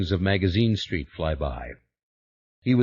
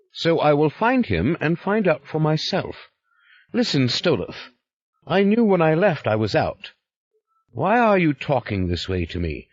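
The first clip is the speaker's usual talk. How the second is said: higher, indignant push back; defiant Yuri; 7 semitones higher than usual. Acted. Yuri angrily confronting Stoloff in the corridor, defiant. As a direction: refuse to be handled.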